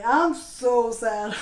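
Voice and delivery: slow, laughing fake sadness; mock sad, laughing. To the ex who cheated, laughing mock sadness. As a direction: drag it out through a laugh, not meaning it. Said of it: "Not really".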